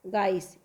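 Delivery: गाइस, low; teacher modelling गाइस; Awadhi pronunciation. Shown as a demonstration. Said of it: "समापन हो जाता है उ गाइस".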